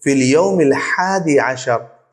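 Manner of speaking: slow "ফিল ইয়াউমিল হাদি আশার" with the ha of হাদি clear; careful Arabic pronunciation. Shown as a demonstration. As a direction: say "হাদি আশার" slowly, marking the ha. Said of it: "এখানে হায়ের উচ্চারণটা আসবে".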